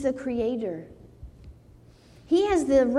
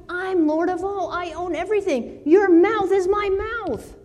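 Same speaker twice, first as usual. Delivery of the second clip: a lightly raised, commanding God voice; voicing God; 7 semitones higher than usual. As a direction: proclaim it as God, pitched higher. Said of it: "God's telling".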